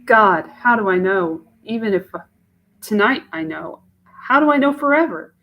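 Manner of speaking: Mache. Acted. Young woman doubting a marriage proposal to herself, in an anguished voice.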